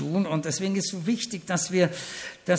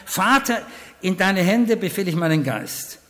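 loud cry; 5 dB louder than usual. Retold or imitated. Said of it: "mit lauter Stimme".

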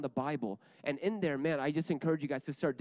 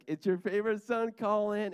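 exaggerated cheery greeting; 8 semitones higher, 4 dB louder than usual. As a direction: play up a chirpy call to Dad, stretching the words. Repeats his acted greeting to dad.

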